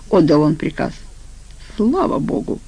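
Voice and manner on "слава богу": soft, higher-pitched relief; relieved sigh. Acted. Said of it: "вздохнул бобёр". (со вздохом облегчения)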